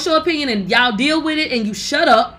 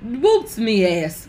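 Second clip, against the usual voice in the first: slow scornful mockery; 3 semitones lower, much slower than usual. Real, not acted. Mocking repeat, slow.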